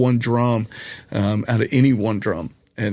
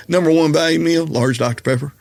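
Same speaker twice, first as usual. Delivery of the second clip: repeated Southern order; 5 semitones higher than usual. Retold or imitated. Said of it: "I'm sorry, excuse me?".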